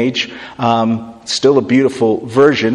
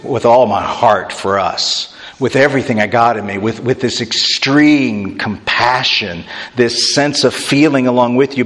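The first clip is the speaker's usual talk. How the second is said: tender paraphrase. Retold or imitated. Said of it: "his extreme way of saying".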